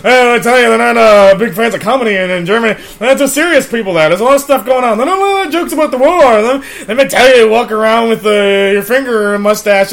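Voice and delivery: fast zany comic patter; Robin Williams impression. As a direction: ramble like a manic stand-up. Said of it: "Mister Williams, it's time to go".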